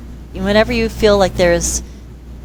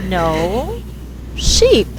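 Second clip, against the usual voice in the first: put-on child correcting. Girl corrects her.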